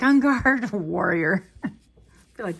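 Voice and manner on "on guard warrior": playful swordsman cry, breaking into a laugh; hammed-up duel call; mock genie warrior. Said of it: "My genie would be like".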